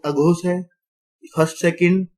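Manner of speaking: normal talking voice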